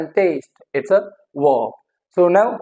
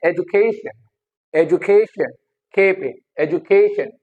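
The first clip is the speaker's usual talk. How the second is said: "education" as e-ju-KAY-shun; stress on KAY. Shown as a demonstration. Teacher drilling the stress rule, stressed on KAY. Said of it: "the second last पे हमारा".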